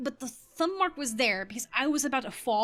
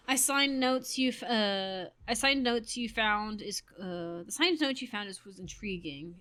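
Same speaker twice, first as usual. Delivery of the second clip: slow, slightly lowered character reading; game dialogue reading; 3 semitones lower than usual. Acted. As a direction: read the line aloud with measured formality. Reads game dialogue aloud.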